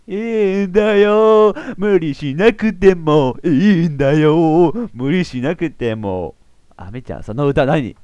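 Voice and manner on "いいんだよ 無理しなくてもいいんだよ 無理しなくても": slow, gentle reassuring voice; tender comfort. Acted. Ami comforting Maki, slow and gentle. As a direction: soothe her slowly.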